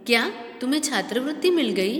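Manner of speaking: quick, pleased question, glad for the student; happy praise. Shown as a demonstration. Teacher shows a pleased question, quick and happy. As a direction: say क्या तुम्हें छात्रवृत्ति मिल गई quickly and delighted, as praise. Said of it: "प्रशंसा सूचक, यानी कि वो खुशी से वो वाक्य को बोल रहा है".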